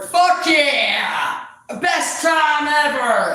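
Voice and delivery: high, loud exclamation; excited shout. Real, not acted. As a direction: yell it out proudly. Answering critics with glee.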